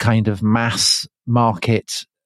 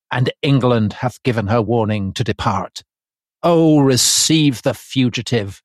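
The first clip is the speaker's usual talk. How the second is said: lightly voiced declamatory pamphleteer; measured, rhetorical proclamation with a lift on the appeals; Thomas Paine impression. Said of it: "as his exquisite, uh, impression".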